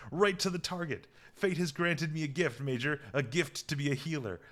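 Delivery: lightly acted arrogance, lilting up; smug self-praise. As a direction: read it out as a self-satisfied doctor praising himself. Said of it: "that's exactly what Bashir's here".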